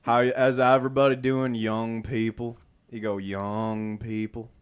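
a light take on a teacher settling the class; imitating the vice principal. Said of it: "this is how he talked".

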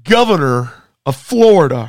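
mock event announcer. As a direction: stretch each part of the billing for suspense.

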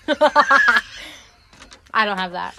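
laughing. Real, not acted. Laughing at tongue joke.

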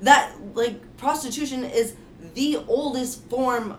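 soapbox. Real, not acted. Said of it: "Amber is really on a soapbox right now".

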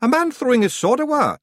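loud, high broad Scots yell; yelling Scots pixie. Acted. Rob yelling at Roland for losing the sword. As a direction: shout him down in outrage. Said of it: "yelled Rob".

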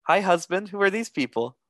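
high-pitched put-on greeting voice; imitated wife. Pretend wife interrupting her husband's chat, high mimicked voice. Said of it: "this voice goes".

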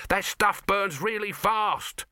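high, slow urgent warning; alarmed warning. A narrator's reading. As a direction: press the danger on him. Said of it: "shouted Dibbler".

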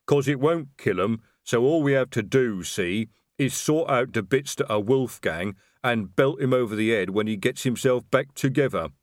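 a hint of a lumbering troll; easygoing troll sergeant; lightly voiced troll. A narrator's reading. Troll Detritus speaks.

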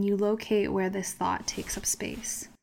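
hushed whisper. Acted. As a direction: draw them in with a whisper. Meditation visualization.

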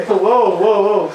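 laughing whoa. Real, not acted. Laughing, calming friends.

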